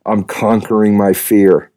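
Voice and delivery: a lightly played stoic hero, a touch slow; steady and unmoved, mock-heroic; understated brooding young billionaire; stoic young Bruce Wayne. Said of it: "I say it stoically, like a young Bruce Wayne".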